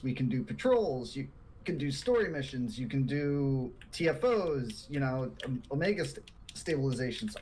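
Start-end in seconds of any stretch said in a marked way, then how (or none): 4.9-7.4 hiccuping through the words; words broken by hiccups. Real, not acted. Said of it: "I have the hiccups".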